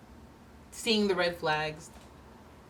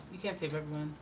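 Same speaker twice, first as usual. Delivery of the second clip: softer repeat; 2 semitones lower, 6 dB quieter than usual. Shown as a demonstration. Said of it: "repeated point".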